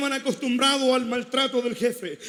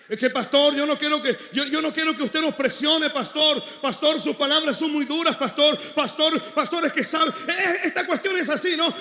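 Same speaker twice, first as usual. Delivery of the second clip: whiny congregant; 4 semitones higher than usual. Retold or imitated. Mimicking a whiny church member.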